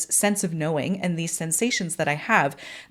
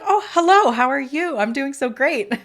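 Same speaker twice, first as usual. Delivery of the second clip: much higher, louder, gushing hello; excited and happy; 7 semitones higher, 4 dB louder than usual. Retold or imitated. Sick girl greeting the visitor soul, gushing and excited. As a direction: bubble over with joy. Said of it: "equally excited and happy to see me".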